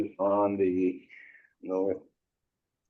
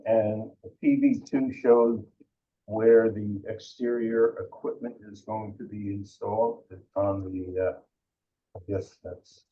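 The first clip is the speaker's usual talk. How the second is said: muffled, speaking down into the desk; head down, voice going into the desk; talking into desk. Real, not acted. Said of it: "I'm talking into the desk over here".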